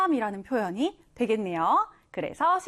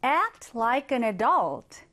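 slow whispered read of the sentence; whispered example; 2 semitones lower, much slower than usual. Shown as a demonstration. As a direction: whisper it slowly. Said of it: "하나 더 볼게요".

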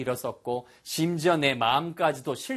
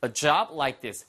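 very slow, higher, with a pause; slow model sentence; 7 semitones higher, much slower than usual. Shown as a demonstration. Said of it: "하셔도 되지만".

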